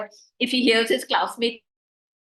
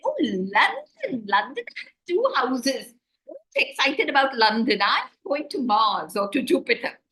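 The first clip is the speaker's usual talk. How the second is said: dismissive show-off; 3 semitones higher than usual. Retold or imitated. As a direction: sniff at London as nothing. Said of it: "Alisha Dubash will say".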